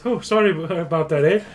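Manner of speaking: put-on Canadian accent. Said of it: "Sorry, boot".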